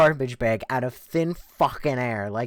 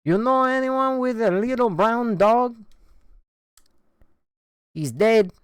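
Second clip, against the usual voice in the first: high, loud imitation of the Spanish woman; 9 semitones higher, 4 dB louder than usual. Spanish woman asking a random guy about the dog, high imitated voice. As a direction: imitate her calling to a neighbor, pitched up. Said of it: "And she goes".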